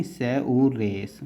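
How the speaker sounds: slow, spaced dictation of each stroke; syllable by syllable. Shown as a demonstration. Teacher to student, spelling each stroke slowly. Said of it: "teacher spelling out shorthand strokes".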